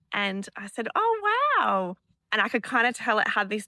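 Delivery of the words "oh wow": mild wonder. Retold or imitated. Mother reacts to son's farm memory.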